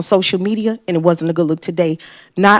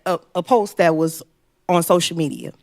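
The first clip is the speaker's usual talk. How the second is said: ordinary talk, nothing marked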